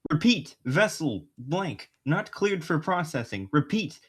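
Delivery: alien transmission voice, halting; garbled alien message. Acted. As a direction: read it like a broken alien signal. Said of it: "begin attempting translation".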